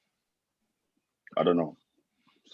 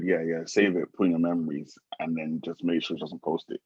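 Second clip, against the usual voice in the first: calm, slightly lower and softer; 5 semitones lower, 5 dB quieter than usual. Acted. Friend showing how he'd have answered, calm. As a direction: play it cool, low and unbothered. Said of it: "I would've remained very calm".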